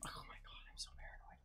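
scared whisper; breathy frightened whisper. Real, not acted.

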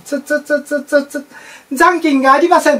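ATM beeps. Retold or imitated. ATM beeps then message.

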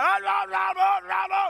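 high, loud run of garbled shouts; unintelligible mock yelling. Preacher imitating the old man nobody could understand, garbled yelling. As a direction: rant in nonsense syllables like an angry old man. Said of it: "I couldn't even understand what he was saying".

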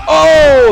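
sudden high loud cry of pain; anguished cry. Real, not acted. Gamer watching his fighter get knocked out, crying out. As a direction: yelp like you just got knocked out.

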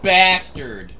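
very slow, stretched words; drawn-out grudging curse. Real, not acted. Player to whoever killed him, drawn-out curse. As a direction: stretch out each word in indignation.

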